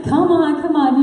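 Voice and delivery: acted-out cheering along; urging encouragement. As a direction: egg a friend on to keep going. Acts friends urging her along.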